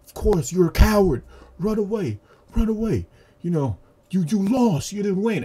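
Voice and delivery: high, loud acted taunting; angry cursing out. Tanjiro cursing out the fleeing demon, angry. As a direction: hurl it after someone, high-pitched and loud. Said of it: "Tanjiro curses him out like".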